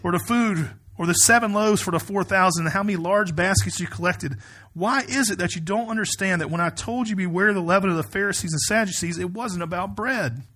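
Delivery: mildly exasperated, emphatic questioning; frustrated rebuke. Retold or imitated. Jesus to disciples who don't understand, mild frustration. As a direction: press the question with restrained frustration. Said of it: "that same kind of frustration".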